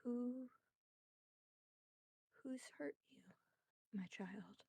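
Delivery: soft, breathy whisper, fast on the first line; tender whisper. Acted. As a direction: whisper like a worried mother. Motherly spirit comforts crying boy.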